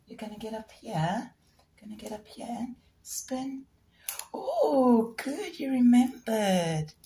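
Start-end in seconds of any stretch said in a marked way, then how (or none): 4.3-6.9 delighted praise. Real, not acted. Praising bird after spin.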